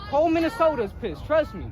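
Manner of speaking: angry. Real, not acted. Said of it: "I'm fucking pissed".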